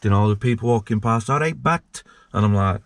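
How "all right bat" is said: Welsh greeting. Retold or imitated. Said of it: "Some of them you couldn't even understand".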